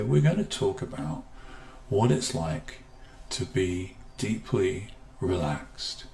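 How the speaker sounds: slow, soft, settling. Shown as a demonstration. Teacher demonstrating slow relaxing voice, softening. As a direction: ease off and let it drift down. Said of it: "as I just slow down the pitch and sound of my voice".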